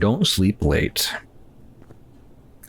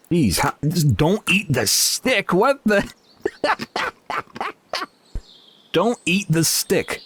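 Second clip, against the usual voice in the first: laughing; 10 semitones higher, slower than usual. Real, not acted. Ice cream stick comedy bit.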